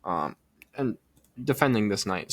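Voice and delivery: talking through hiccups; hiccuping between words. Real, not acted. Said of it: "Sorry, I have the hiccups right now".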